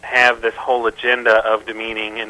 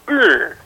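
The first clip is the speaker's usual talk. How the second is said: disgusted groan; 7 semitones higher, 3 dB louder than usual. Retold or imitated. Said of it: "makes me just go".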